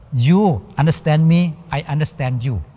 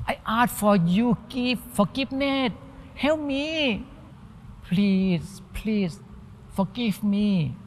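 high, much softer pleading, slowing at the end; acting out a person begging a friend to forgive, soft and high; begging softly; 4 semitones higher, 7 dB quieter, slower than usual. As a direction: beg quietly, drawing out the last please.

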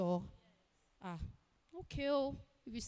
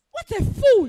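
scornful insult; 2 semitones higher, 12 dB louder than usual. Acted. Insulting the waiter.

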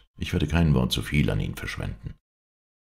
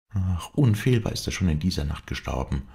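klagend; 5 semitones higher than usual. Acted. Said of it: "klagte Clotilde".

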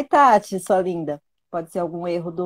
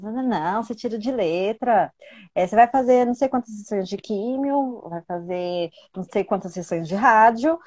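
higher and a bit louder, breezy and upbeat; the doctor reassuring casually, upbeat and higher; 4 semitones higher, 4 dB louder than usual. Retold or imitated. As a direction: toss off the treatment list like it is nothing. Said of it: "é deles".

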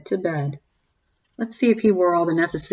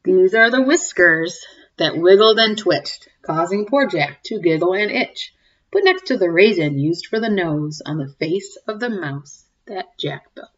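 story reading; 3 dB louder than usual. A narrator's reading. Reading a cumulative rhyme to the kids, sing-song. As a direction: read it like a bedtime picture book. Reads picture book aloud.

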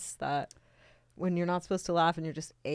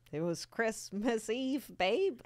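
put-on Canadian accent; 5 dB quieter, much slower than usual. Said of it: "so Canadian".

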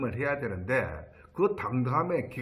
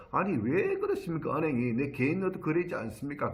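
mildly irritated, retold protest; irritated retort; 3 semitones higher than usual. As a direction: lightly replay an annoyed objection to the bank. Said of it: "저도 막 짜증을 내면서". (살짝 짜증 섞인 말투로 재연)

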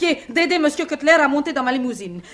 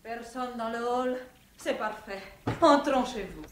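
hushed; 11 dB quieter than usual. Acted. Sneaking in at night.

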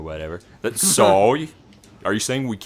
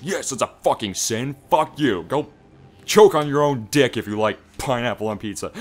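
louder, swearing mock rant at pineapple fans; douchey mock rant; 3 semitones higher, 5 dB louder than usual. His douchey side rants at pineapple-pizza fans, louder mock rant. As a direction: play the jerk side of yourself, loud. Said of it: "So the douchey part of me says".

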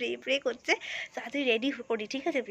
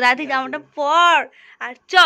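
impatient shout; 2 semitones higher, 9 dB louder than usual. Real, not acted. Hurrying friend to dress.

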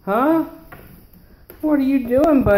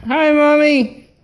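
talking doll; 3 semitones higher, 5 dB louder than usual. Pretend. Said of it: "Say hi to Mommy".

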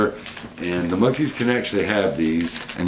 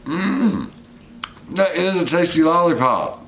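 excited; 10 semitones higher, slower than usual. Real, not acted. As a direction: savour it and gush. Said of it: "the most excited I've been".

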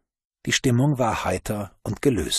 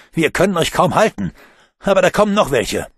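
straining call; 8 semitones higher, 6 dB louder than usual. Acted. Alphonse straining, calling.

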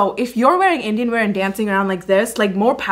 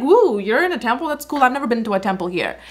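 excited; 2 semitones higher than usual. Real, not acted. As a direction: cheer it, genuinely thrilled to see the temple. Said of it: "I'm actually excited".

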